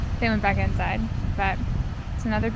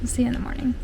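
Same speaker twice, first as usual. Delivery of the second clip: whispering; much faster than usual. Real, not acted. Signing off at night.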